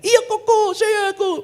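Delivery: high, loud mock wail; imitated weepy admission; tearful imitation. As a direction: confess as if sobbing, hammed up. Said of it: "Kenapa dia nangis?".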